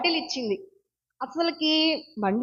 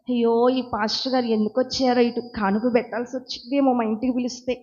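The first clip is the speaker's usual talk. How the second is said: hidden inner grumbling; 3 dB quieter than usual. Acted. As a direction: act out a private complaint, fast and softer. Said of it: "లోపల ఇంకోటి దాచుకొని".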